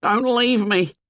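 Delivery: high, drawn wailing plea; frightened boy's high-pitched cry; panicked wail. A narrator's reading. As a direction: wail it, begging not to be abandoned. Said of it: "Piggy wailed".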